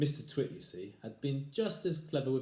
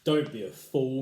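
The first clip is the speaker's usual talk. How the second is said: scolding husband; 4 semitones higher, 11 dB louder than usual. Acted.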